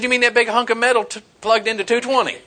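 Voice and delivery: high, fast mock disbelief; incredulous retort. Telling his wife standing on the dryer is absurd, high incredulous retort. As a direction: fire it back like it's obvious nonsense. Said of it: "I said".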